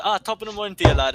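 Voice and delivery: a hint of hammed-up British; imitated British accent. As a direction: imitate a friend putting on British. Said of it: "speaking all British and stuff".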